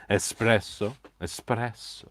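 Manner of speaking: espresso drawn out slowly, rolling the r; savoured word. Shown as a demonstration. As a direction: relish espresso slowly, Italian style. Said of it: "I have to keep saying it like so".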